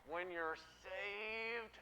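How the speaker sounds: weary leader scolding, played for laughs; mock exasperation. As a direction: hold back, then burst out fed up. Fed-up Moses scolds the whiners.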